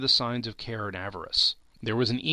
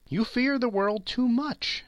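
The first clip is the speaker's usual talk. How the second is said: answered gently; 11 semitones higher than usual. A narrator's reading. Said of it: "she answered gently".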